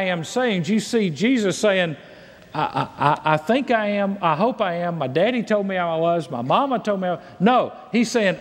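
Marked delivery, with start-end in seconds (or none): 2.5-7.2 mock hesitancy. Mocks unsure claim, against firm "I am.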